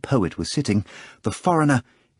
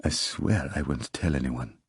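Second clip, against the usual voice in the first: mock frightened; 7 semitones lower, 7 dB quieter than usual. A narrator's reading. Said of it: "He put on a frightened look".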